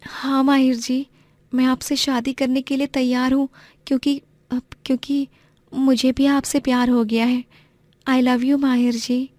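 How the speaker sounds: a modest village girl, voiced high and gentle; young woman's voice. Narrator voices Aarohi.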